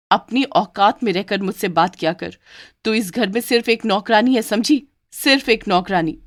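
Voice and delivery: contemptuous scolding. Acted. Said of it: "थप्पड़ मारते हुए कहती है".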